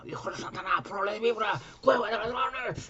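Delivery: high and climbing, slowing on cueva de ladrones; furious rebuke. Retold or imitated. Jesus scolding the temple merchants, rising high fury. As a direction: denounce them, pitch rising to a cry. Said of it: "decía".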